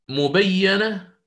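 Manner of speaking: مبينة بكسر الياء أعلى وببطء; انطق مبينة بكسر الياء متمهلا; مبينة بالكسر. Shown as a demonstration. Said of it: "فما يكسره الإمام حفص". (مبينة بالكسر نبرة أعلى)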